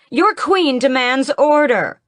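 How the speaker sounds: high, slow, loud royal demand; regal command. Acted. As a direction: hold each word as a queen's command. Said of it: "she calls".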